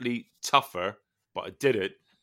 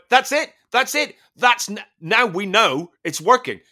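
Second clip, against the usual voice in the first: much higher, louder gleeful cheering; delighted trainer; 9 semitones higher, 5 dB louder than usual. Retold or imitated. The trainer applauding him collapsed on the floor, gleeful high cheer. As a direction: cheer him on like a thrilled coach.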